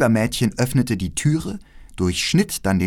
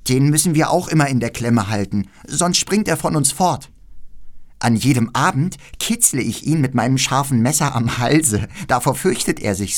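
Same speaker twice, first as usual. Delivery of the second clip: leicht angehobene, lebhafte Mädchenstimme; freches Räubermädchen; 4 semitones higher than usual. Acted. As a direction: als keckes Räubermädchen leicht aufdrehen. Voices the robber girl. (leicht gespieltes, freches Räubermädchen)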